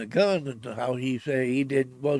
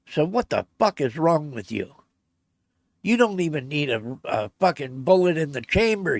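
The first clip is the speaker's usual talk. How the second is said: loud, raised furious rant at his buddy; livid telling-off; 4 semitones higher, 4 dB louder than usual. Retold or imitated. Hunter chewing out his careless partner, loud and furious. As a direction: tear into him for the cocked rifle. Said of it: "I was mad, just fucking livid".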